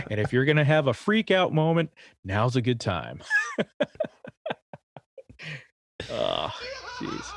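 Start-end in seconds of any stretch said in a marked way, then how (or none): 0.1-3.2 playful announcer, pitch dropping at the end; mock PA announcer. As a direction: deliver the gag as official cabin advice. Joke ending to mock cabin announcement.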